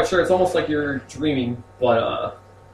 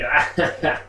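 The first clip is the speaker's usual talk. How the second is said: distant cackle; 3 semitones higher, 3 dB louder than usual. Acted. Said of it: "you hear a cackle".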